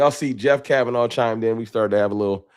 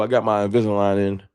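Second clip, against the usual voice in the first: lisp from aligners. Real, not acted. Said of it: "pardon my lisp".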